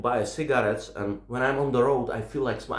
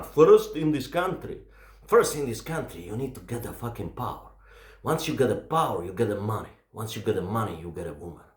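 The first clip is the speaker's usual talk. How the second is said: loosely imitated gangster, sinking lower and softer; Tony Montana; 5 semitones lower, 3 dB quieter than usual. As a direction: lay down the rules like a crime boss, trailing low. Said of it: "It was like Tony Montana".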